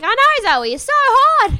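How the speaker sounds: high, loud, laughing mock comfort; mock sympathy. Talking back to Zoe on screen, loud high mock sympathy. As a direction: gush at her like a fan. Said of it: "And I'm like".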